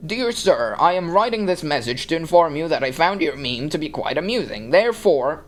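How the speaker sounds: lightly mocking old-timey letter writer. Reviewer mocking an old-timey writer's meme comment, mock-formal. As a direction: read it out as a verbose formal letter. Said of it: "a fucking old-timey writer dude".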